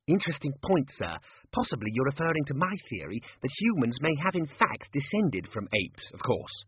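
lightly voiced earnest academic; a hint of the keen young scholar; eager junior wizard. Ponder answers his superior about his theory, lightly voiced eager scholar.

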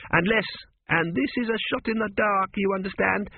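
high-pitched, hedging character voice; Tepic, tentative guesser. A narrator's reading. Tepic ventures an answer to the Sphinx, tentatively. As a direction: float a guess, pitched well up.

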